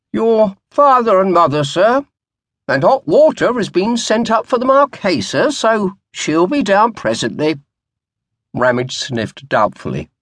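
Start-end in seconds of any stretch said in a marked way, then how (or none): 0.1-7.6 a wispy-haired butler fretting over the oysters; worried old butler, gently reproachful; fussy old butler. A narrator's reading. Narrator voices old butler Hanson.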